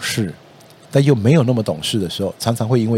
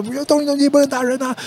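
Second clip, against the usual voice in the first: mock scolding parent. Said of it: "然后呢，你说".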